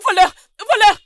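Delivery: very loud high yell; screaming thief. Acted. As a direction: scream it to the street. Yelling thief.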